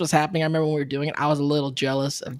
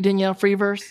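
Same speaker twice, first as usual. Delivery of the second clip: laughing tease; 4 semitones higher than usual. Real, not acted. Teasing co-host, laughing.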